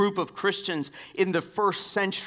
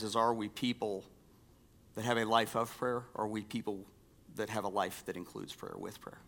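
soft asking; 5 semitones lower, 9 dB quieter than usual. Real, not acted. Pastor quietly poses the question to the church. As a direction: lower and softer, turning the question over quietly. Question posed softly, then repeated loudly.

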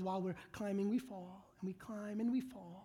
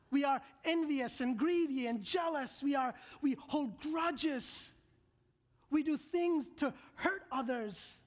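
raised, driving sermon voice; preaching at full force; 4 semitones higher, 3 dB louder than usual. Acted. Preacher telling the congregation they are bad sheep, in a raised preaching voice. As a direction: preach it hard, the congregation must hear how we fall. Preacher builds on human failings.

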